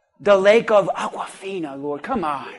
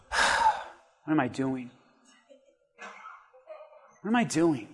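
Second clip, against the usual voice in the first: despairing self-question; 6 semitones lower, 11 dB quieter than usual. Retold or imitated. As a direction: ask yourself in quiet dismay. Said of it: "he was like, sighs".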